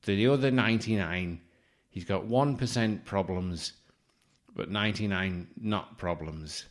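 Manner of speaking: a light imitation of the psychic's reading; mock psychic. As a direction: drone out the reading like a fraud. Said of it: "He just starts going".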